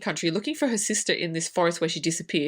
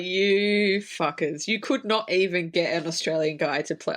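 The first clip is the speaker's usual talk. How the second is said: retold anger; 2 semitones lower than usual. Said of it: "Oh, I was so pissed".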